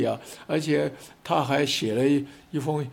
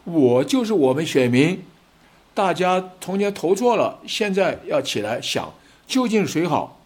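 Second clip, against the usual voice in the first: rally call to voters; 3 semitones higher, 3 dB louder than usual. Acted. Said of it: "这个时候有没有人出来啊".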